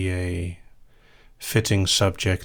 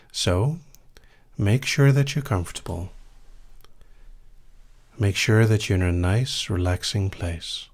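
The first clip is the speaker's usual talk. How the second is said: right in your ear. Acted. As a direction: breathe it close and gentle. Begins whispered hypnosis induction.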